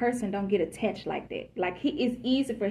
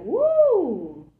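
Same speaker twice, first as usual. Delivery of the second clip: mock swooning woo; 7 semitones higher, 6 dB louder than usual. Man caught in his feelings.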